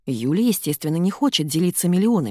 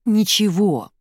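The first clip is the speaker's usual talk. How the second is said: exclaimed with feeling, a bit louder; heated exclamation; 4 semitones higher, 4 dB louder, slower than usual. A narrator's reading. Sasha denies wrongdoing to Ira, heated exclamation. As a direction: blurt it out in frustration. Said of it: "в сердцах воскликнул".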